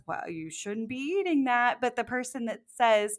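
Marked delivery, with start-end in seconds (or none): 0.1-1.8 higher-pitched mock chiding; imitated scolding. Unhelpful supporter commenting on someone's food, mildly scolding. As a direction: lightly imitate a disapproving food critic. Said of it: "not the person that says".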